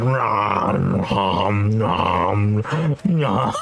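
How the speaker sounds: lazy nom nom sounds; mock chewing nom. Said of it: "you're just like".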